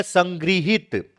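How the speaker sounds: संगृहित drawn out slowly and softly, with the ऋ sound as "gri"; slow careful answer. Shown as a demonstration. Teacher revealing the correct spelling slowly and softly. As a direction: give the answer slowly, letting each syllable land. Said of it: "तो क्या सही है?".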